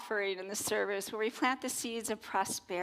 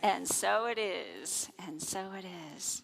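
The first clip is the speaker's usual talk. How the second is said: slow fading affirmation; gentle closing blessing; closing amen. Acted. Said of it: "say that affirmation".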